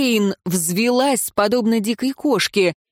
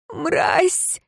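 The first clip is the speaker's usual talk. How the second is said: wheezed insult; 10 semitones higher than usual. A narrator's reading. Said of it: "просипела она".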